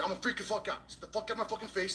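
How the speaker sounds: high, heated retelling of a threat; on the verge of losing it, pitch way up; freaking out. Retold or imitated. Warning the man off at the gym, freaking out.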